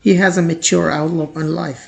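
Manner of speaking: very slow, clear example sentence; slow model sentence. Shown as a demonstration. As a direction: read it slowly for learners to copy. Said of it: "example sentence read slowly". (धीमा, साफ़ उदाहरण वाक्य)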